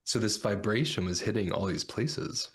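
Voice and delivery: raspy whisper with a lost voice. Real, not acted. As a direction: whisper hoarsely, voice nearly gone. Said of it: "I'm losing my voice".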